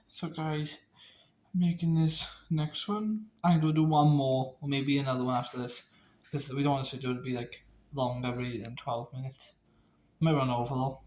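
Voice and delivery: talking around a retainer; speech slightly hampered by a retainer; wearing a retainer. Real, not acted. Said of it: "I'm struggling to speak 'cause I got my, my retainers in".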